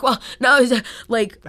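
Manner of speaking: high, loud prissy retort; snippy mock woman. The rude woman snaps back at Taylor, shrill and loud. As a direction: snap it back like an entitled customer.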